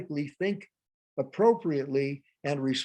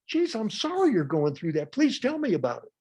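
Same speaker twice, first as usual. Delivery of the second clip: energetic, sympathetic apology; matched energy; 6 semitones higher than usual. Shown as a demonstration. Answering an upset customer, energetic sympathetic apology. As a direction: meet their energy without the anger. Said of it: "is to match energy".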